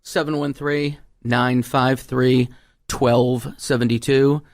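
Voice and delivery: number read out slowly and clearly; phone number dictated slowly; slow dictation. Shown as a demonstration. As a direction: spell the digits out for listeners. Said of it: "Your phone number?".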